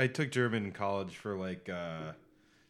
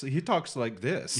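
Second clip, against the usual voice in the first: slow, higher German accent on he talks like this; Wolfgang's German voice; 4 semitones higher, slower than usual. Shown as a demonstration. Showing a friend how Wolfgang talks, German accent. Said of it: "but Wolfgang talks".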